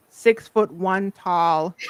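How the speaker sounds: words breaking into a laugh; slow, drawn-out words cracking into laughter. Real, not acted. Joking to her co-host about whom she serves, laughing.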